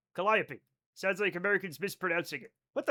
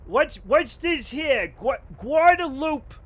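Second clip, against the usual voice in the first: slow, higher puzzled parent reading a sign; mock confused parent sounding out a name; imitating parents; 6 semitones higher, 7 dB louder, slower than usual. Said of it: "the way my parents would pronounce it".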